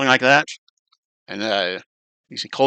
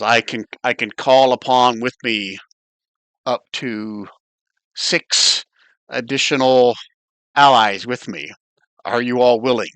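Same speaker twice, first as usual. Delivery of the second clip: otherworldly voice. Acted. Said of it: "he speaks almost like in a, uh, otherworldly voice".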